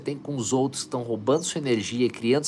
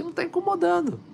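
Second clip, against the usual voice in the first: high self-answer. Retold or imitated. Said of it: "Eu respondi".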